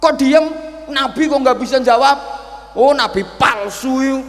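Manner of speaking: high, loud scornful accusation; mock him as a false prophet; angry. Old man scolding Musa as false, angry. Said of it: "Marah-marah dia".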